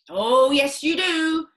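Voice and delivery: loud, high, pressing father; father urging George to think, loud; insistent father. Acted. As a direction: squeeze it out of the boy. Mr Cranky insistent.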